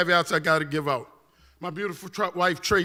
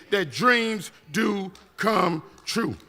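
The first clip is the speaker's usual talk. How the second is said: slow sincere emphasis; much slower than usual. Acted. Urging parents to tell children.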